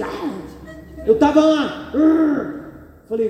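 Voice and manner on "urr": a short growled roar like a lion; mock lion roar. Preacher acting out roaring at the devil in prayer, mock lion roar. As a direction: roar it out like a lion ready to fight. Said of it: "Eu tava que nem um leão rugindo".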